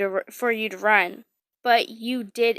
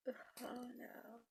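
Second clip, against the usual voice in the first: soft sad whisper; 29 dB quieter than usual. Real, not acted. Reader mourning poor Leo, sad whisper. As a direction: breathe it out, almost silent.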